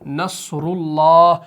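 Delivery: नसरुल्लाह slow, रु thick; heavy ru. Shown as a demonstration. Teacher giving an example, slow heavy ru. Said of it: "मोटा करके पढ़ना है नसरुल्लाह".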